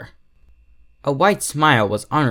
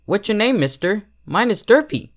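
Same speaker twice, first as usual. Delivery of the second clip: much higher, eager filly voice, bouncing with energy; excited little pony; 8 semitones higher, 3 dB louder than usual. Acted. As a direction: play the eager young pony asking his name. Excited filly introducing herself.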